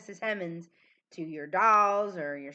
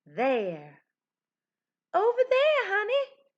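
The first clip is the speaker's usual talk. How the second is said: loud, very high, swooping cowboy voice; 12 semitones higher, 5 dB louder than usual. A teacher having kids say a tricky word like a cowboy, in a cowboy voice. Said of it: "say this word like a cowboy or a cowgirl".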